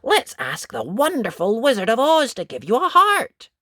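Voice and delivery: put-on very high, eager little girl; bright with the plan; little girl eager to help tin can; excited. Dot suggests wizard again.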